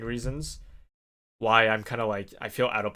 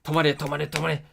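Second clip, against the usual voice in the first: imitating the instructor yelling stop, higher and louder; strict instructor; 5 semitones higher, 5 dB louder than usual. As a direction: order him to halt. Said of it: "He's like".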